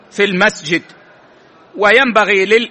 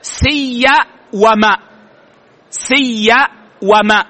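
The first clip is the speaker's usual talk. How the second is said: splitting the word; much slower than usual. Shown as a demonstration. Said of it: "مكونة من أمرين".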